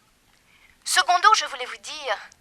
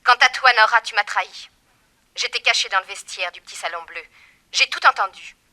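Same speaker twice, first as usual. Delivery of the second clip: angry accusation; 7 dB louder, faster than usual. Acted. Villainess accuses Nora of betrayal.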